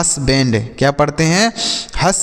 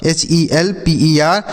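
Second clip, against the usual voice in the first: slow spelling out; slower than usual. Shown as a demonstration. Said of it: "हेल्पर".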